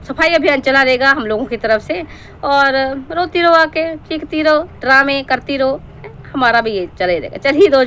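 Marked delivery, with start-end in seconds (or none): 2.4-5.8 slow, higher-pitched drawn-out taunt. Real, not acted. Reaction host taunting a vlogger about her dramas, mocking. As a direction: draw each jab out mockingly, pitched up.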